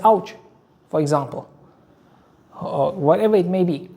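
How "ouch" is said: quick, higher, louder pained ouch; sharp ouch. Shown as a demonstration. Teacher acting out a worshipper hurt mid-prayer, yelping ouch. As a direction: yelp it like sudden pain. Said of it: "so he said".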